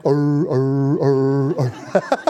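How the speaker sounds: lightly voiced baying hound; hound dog bay. Preacher likening the statement to a hound's bay, light mock baying. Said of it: "it was kinda like".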